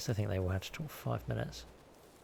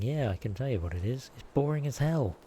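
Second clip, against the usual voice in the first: bored viewer voice; 4 semitones higher, 4 dB louder than usual. Retold or imitated. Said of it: "You're all sitting there going".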